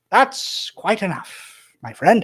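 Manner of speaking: slow, high, loud; a grand, drawn-out close; satisfied old wizard. Acted. Wizard ending the reading, slow and grand. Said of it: "he goes".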